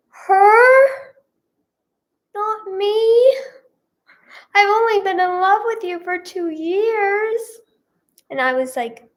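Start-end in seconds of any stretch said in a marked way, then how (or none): 0.1-7.4 outraged disbelief. Retold or imitated. Retelling her crush dating the bully, high indignant squeal. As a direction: pitch it way up in hurt disbelief.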